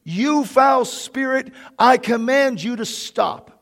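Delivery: slow, firm rebuke of a spirit; mild mock command to the demon; understated retold command, slow; commanding cry. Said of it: "I cried out".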